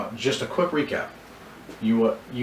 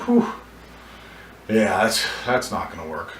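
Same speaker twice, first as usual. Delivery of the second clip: genuine concern; 3 semitones lower, slower than usual. Shown as a demonstration. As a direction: sound truly sorry it won't work. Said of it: "say it with as much genuine concern".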